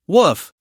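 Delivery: one bright, cheerful woof; a single glad dog bark; happy bark. Acted. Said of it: "The silly dog barked happily".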